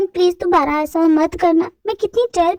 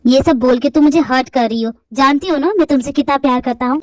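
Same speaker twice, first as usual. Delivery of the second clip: put-on lower, hurt young man; young man's voice; 5 semitones lower than usual. Boyfriend hurt by her cruel words, lower male voice. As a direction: sound wounded by her words.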